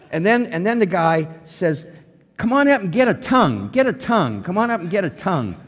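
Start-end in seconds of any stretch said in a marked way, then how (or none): 2.4-5.6 preacher's altar call. Retold or imitated. Preacher calling people forward.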